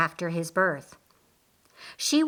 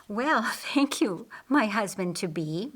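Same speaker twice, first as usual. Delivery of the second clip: a light chirp with a laugh, rising at first. Acted. Martha thanks her husband-to-be with a laughing chirp. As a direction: chirp your thanks through a little laugh. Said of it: "Martha chirped".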